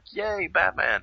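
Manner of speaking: mock fan cheer.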